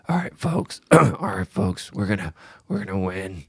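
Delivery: lightly voiced sly leprechaun; a hint of a scheming leprechaun; evil leprechaun. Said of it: "You sound like an evil leprechaun".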